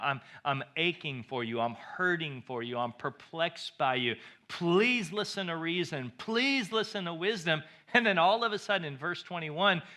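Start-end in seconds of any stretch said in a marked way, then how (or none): 0.0-7.6 ache through the words without breaking; crying out. Retold or imitated. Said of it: "He's crying out".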